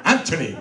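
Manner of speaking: "Anthony" with a clear T; stage pronunciation of Anthony. Shown as a demonstration. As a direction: say "Anthony" as AN-tuh-nee on controlled breath. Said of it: "breath control".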